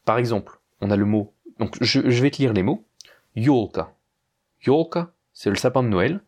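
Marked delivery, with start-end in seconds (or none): 3.4-3.9 "Yolka" stressed on the first syllable, Yo. Shown as a demonstration. Teacher reading Russian example words to a student, stress on yo. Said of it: "on accentue le yo". 4.7-5.1 "Yolka" with the accent on Yo; stress on yo. Shown as a demonstration. Teacher repeats the word for Christmas tree, stressing yo. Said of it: "on accentue le yo".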